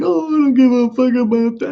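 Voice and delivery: high-pitched mock drunk bravado; drunk brother. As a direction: imitate a drunk brother brushing off a warning. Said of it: "my brother was drunk".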